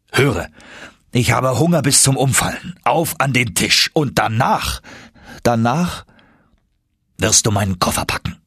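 commanding, restored; energetic professor. Acted. Professor ordering lunch and packing, brisk voice.

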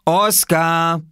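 high, loud warning call. A narrator's reading. Swimmer calling to the small culprit, warning shout. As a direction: shout the name sharply upward. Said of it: "rief Viktor".

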